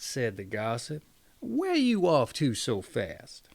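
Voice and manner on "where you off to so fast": hushed whisper to a friend on the road; whispered question. Acted. Egg merchant stopping the hurrying peasant, whispering. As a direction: lean in and whisper it.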